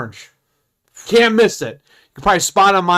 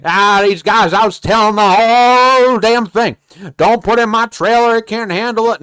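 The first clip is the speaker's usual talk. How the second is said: imitating the customer; 4 semitones higher, 5 dB louder than usual. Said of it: "He's like".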